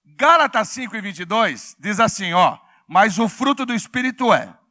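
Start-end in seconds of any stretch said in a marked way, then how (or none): 2.9-4.6 loud unison reading; loud call-out. Shown as a demonstration. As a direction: read it out loud with the congregation. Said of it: "vamos gritar aí?".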